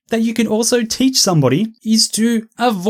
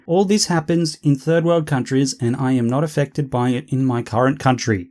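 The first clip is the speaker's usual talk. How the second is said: mocking dictation; 7 semitones lower, 4 dB quieter than usual. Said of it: "I want you to say".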